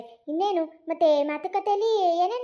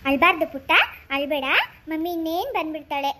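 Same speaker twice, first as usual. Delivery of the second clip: soothing; 2 semitones lower than usual. Acted. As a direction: comfort a crying little one. Aunt comforts the crying child. (ಸಮಾಧಾನ ಪಡಿಸುತ್ತಾ)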